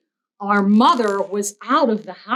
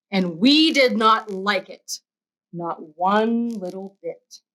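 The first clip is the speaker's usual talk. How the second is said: put-on reading to children. A narrator's reading. Teacher reading Cat in the Hat to kids. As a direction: read it like story time.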